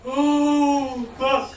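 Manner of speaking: loud, high shocked outburst; startled shout. Real, not acted. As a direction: yelp it out in real surprise. Sudden shock during game.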